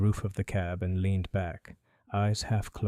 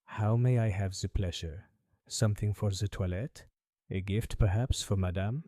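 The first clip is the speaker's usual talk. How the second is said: put-on a faint French accent, bowing politely; light French accent. Perfumer greeting Holmes, faint French accent. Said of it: "faintest trace of a French accent".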